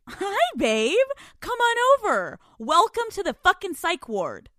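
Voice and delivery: high sing-song creepy doll greeting. Retold or imitated. Chucky-style doll voice welcoming her to the psych ward. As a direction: lure him in like a horror doll.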